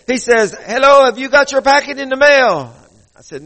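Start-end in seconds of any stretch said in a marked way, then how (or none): 0.6-2.7 high-pitched imitation of an Asian-sounding caller; Asian-sounding accent. Prize caller asking about a mailed packet, imitated Asian-sounding accent. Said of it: "has an Asian-sounding accent".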